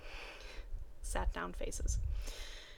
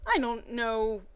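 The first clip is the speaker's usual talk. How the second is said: happily. Acted. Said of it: "Misty asked happily".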